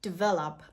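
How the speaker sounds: Develop as "dih-VEL-up"; small I after the D in Develop; correct pronunciation. Shown as a demonstration. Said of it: "A very small I sound".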